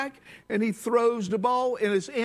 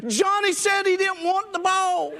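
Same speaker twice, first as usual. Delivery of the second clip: laughing punchline; 10 semitones higher, 3 dB louder than usual. Retold or imitated. Punchline, player answers coach.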